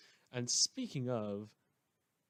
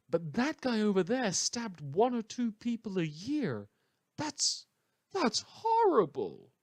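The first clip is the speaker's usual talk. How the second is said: higher, sarcastic fake horror; sarcastic mock outrage; 4 semitones higher than usual. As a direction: play up the outrage to mock them. Mocking people who excuse murderers.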